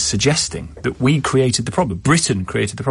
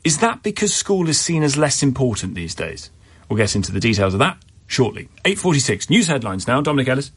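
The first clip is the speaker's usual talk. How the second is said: radio presenter read; 2 semitones higher than usual. Acted. Host trails next segment.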